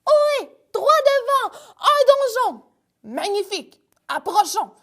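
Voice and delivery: very high calling out; lookout calling. Acted. Pierrick on the rock calls to the crew, high excited hail.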